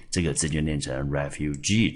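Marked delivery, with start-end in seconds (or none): 1.1-1.9 "refugee" with the weight on the final GEE; stress on third syllable. Shown as a demonstration. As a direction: lean on the last syllable of "refugee". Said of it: "注意它重音节在我们的第三音节".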